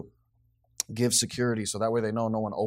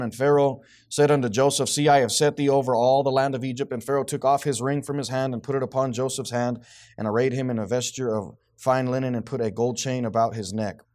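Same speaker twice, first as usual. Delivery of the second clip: firm reading, strongest at the start; scripture reading; 3 semitones higher, 5 dB louder than usual. Real, not acted. Teacher reading of Pharaoh and Joseph, firm scripture reading. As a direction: read out the verse with weight.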